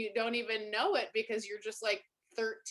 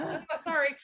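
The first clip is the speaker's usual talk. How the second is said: mock apology; 8 semitones higher than usual.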